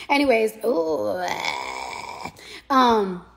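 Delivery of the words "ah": pained groan. Real, not acted. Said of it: "my chest is killing me".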